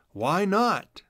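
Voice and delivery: cheerful agreement. A narrator's reading. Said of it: "they both smiled and said".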